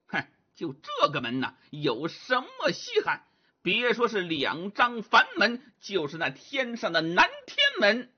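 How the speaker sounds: lightly voiced cocky Monkey King; Sun Wukong, boastful. Wukong boasts he could open heaven's gate, cocky. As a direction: brag with a scoff and a small laugh.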